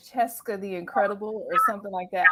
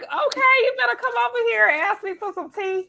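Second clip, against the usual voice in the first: high, playful put-on British voice; hammed-up British tea-time invitation; mock British accent; 11 semitones higher, 5 dB louder than usual. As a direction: play at a British accent, pitched way up. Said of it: "I can't even do the accent".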